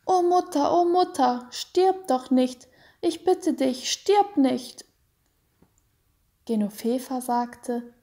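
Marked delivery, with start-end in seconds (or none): 0.0-4.8 put-on child's high crying plea, a touch louder; boy pleading with his dying mother, high and tearful; loud weeping plea. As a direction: beg her not to die through tears. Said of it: "laut weinend".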